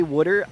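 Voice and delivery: "wooder" with the vowel of "wood"; Philly wooder. Shown as a demonstration. Answering chat about own accent, Philly "wooder". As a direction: say water as "wooder". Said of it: "I did for most of my life".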